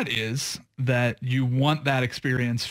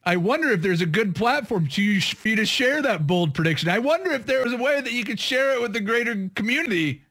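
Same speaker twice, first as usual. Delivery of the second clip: higher, teasing mock wondering; playful sarcasm; 6 semitones higher than usual. Real, not acted. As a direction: prod them with feigned innocent curiosity. Playfully prodding the coy co-host to share.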